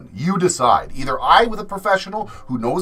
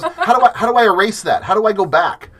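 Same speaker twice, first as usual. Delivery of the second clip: raised, mildly panicked mock plea; flustered mom; 5 semitones higher, 4 dB louder than usual. Mom asking tattooist son to undo her slip, mildly flustered. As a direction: imitate someone flustered by a slip. Acting out mom's panicked mistake.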